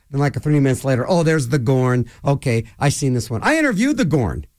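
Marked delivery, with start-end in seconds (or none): 1.1-3.4 retold letdown. Retelling his letdown minutes later.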